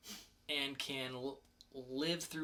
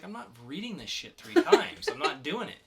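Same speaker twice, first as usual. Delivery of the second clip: laughing refusal; 6 semitones higher, 8 dB louder than usual. Retold or imitated. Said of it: "I was like".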